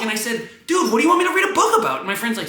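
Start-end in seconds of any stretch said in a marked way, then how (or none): 0.7-2.0 high, rapid exasperated comeback; re-enacted heated retort, fast; yelling back. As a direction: fire it back in a high yell. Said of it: "when I yell back at you".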